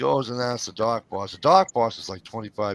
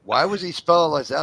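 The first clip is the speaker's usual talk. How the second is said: lightly mimicked wife, pitched higher; a raised-pitch imitation of a puzzled question; wife's questioning; 6 semitones higher, 4 dB louder than usual. Wife asking husband about a misspelling, questioning.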